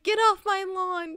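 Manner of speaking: lightly voiced old man shouting, drawn out; mock-yell like a cranky old man; grumpy old man. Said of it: "the old man being like".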